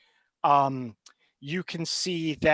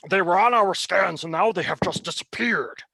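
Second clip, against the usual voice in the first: stammering, anxious report; a flustered officer with bad news; nervous officer; 2 semitones higher, 4 dB louder than usual.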